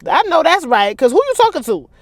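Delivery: loud, high hype shout; cheering. Real, not acted. Listener cheering as Warren decks Donnie, hyped shout. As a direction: cheer the punch like at a fight.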